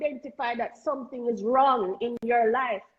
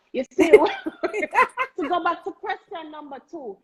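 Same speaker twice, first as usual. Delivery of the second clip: slow, laughing through the words; laughing restart; 4 semitones higher, 6 dB louder, slower than usual. Real, not acted. Guest laughing at herself while returning to the question. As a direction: chuckle as you restart the point.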